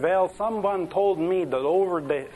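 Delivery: put-on halting try at a Jewish accent; attempted Jewish accent. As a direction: start the old cowboy's line in a Jewish accent that doesn't quite land. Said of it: "I can't get into a Jewish accent".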